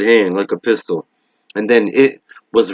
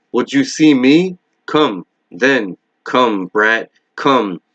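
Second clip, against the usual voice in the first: mocking monster. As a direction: sneer at the boy as an ancient evil. It taunts Bill.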